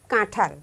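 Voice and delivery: কাঁঠাল with a nasalized কাঁ; কাঁঠাল with the chandrabindu sounded; nasal vowel. Shown as a demonstration. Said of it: "চন্দ্রবিন্দু, খেয়াল করবে".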